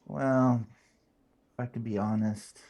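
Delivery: ordinary delivery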